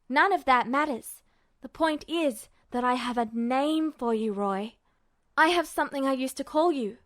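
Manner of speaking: put-on eager, urgent teen pressing his point; a lightly voiced, insistent young Ed. Ed pleads with Roy.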